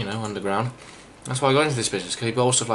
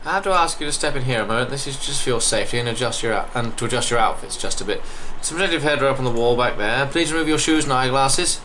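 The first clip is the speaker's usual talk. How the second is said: raised, officious English guide voice; English accent; 3 semitones higher, 3 dB louder than usual. Acted. Guide fitting visitors with safety gear, English accent. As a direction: give polite English safety instructions. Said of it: "I don't know why he's English".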